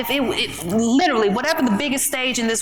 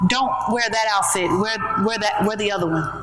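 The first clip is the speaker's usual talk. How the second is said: lightly voiced inner voice; 3 semitones lower than usual. Inner voice advising her on her outfit, lightly imitated. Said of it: "I'll hear that voice say".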